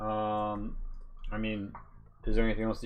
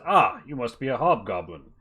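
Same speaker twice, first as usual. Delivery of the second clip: a lightly voiced gruff mercenary chief; bugbear boss. Bugbear leader sizing up the party, lightly voiced and bluff. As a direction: boast a little, then make the offer.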